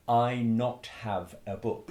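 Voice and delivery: slow, careful "I not have a book" as a learner says it; learner's mistake. Retold or imitated. Teacher imitating a foreign learner's mistake. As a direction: lightly imitate a new English learner. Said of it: "they will often make, um, a mistake".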